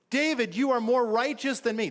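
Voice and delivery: high-pitched, acted tearful confession; Saul, mock sobbing. Saul confesses to David before his men, mock sobbing. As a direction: plead as if breaking down, pitched well up. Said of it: "It says he starts sobbing".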